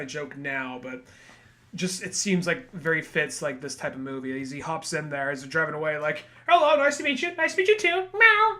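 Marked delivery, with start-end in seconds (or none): 6.5-8.6 high, squeaky, ending in a mock meow; rising cartoon voice that turns into a meow; playful cat lady. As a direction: greet like a purring cat. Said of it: "It's like a cat there".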